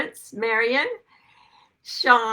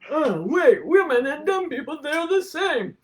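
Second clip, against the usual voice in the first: mock dismissive culture; 5 semitones higher, 4 dB louder than usual. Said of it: "But our culture says".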